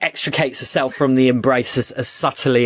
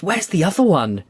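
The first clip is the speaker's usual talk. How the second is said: delighted queen voice; 7 semitones higher, faster than usual. Acted. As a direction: coo over the child like a thrilled queen. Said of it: "she says".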